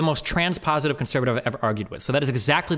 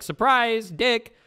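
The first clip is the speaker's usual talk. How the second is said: mock surprise reveal; 8 semitones higher, 6 dB louder, much slower than usual. Mock reveal in acted sex scene.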